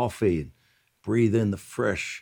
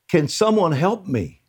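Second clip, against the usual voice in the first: crying out; 7 semitones higher, 4 dB louder than usual. Retold or imitated. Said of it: "I cry out".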